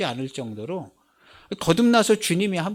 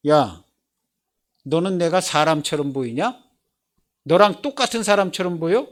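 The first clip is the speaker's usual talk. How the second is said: firm clear answer. Retold or imitated. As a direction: answer the mocker plainly and surely. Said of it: "분명하게 얘기해줘야 돼요".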